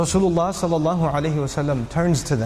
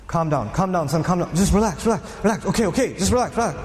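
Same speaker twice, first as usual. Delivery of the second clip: soothing; faster than usual. Acted. Soothing an angry young man.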